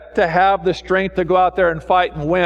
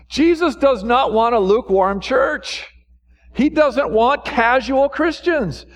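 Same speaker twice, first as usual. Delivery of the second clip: raised-pitch, ringing exhortation; impassioned preaching; 6 semitones higher than usual. Real, not acted. Preacher urging the church to live radical lives, impassioned. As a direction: urge them on like a fired-up preacher.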